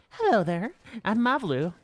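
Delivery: chatty, helpful ranch worker, lightly put on; lightly voiced rancher Mablu. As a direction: read it as a talkative game character. Voices game character Mablu.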